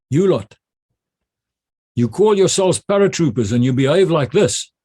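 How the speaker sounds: officer rebuking misbehaving paratroopers, forceful; retold scolding shout. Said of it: "I actually shouted at them".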